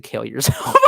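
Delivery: retold jab breaking into laughter; laughing retort. Retelling a retort to a woman, laughing. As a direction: crack up while delivering the retold line.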